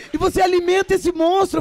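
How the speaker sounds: high, loud imitating voice; high mock colleague. Imitating her colleague asking about the monster, high and loud. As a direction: ask it high and amazed. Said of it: "ela falou assim".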